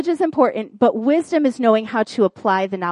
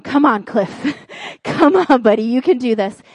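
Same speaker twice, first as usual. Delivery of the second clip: pleading pep talk, raised in the middle; urging on, imitated; 2 semitones higher, 4 dB louder than usual. Husband doing CPR on a turtle, imitated urging. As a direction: cheer on a struggling buddy, half laughing.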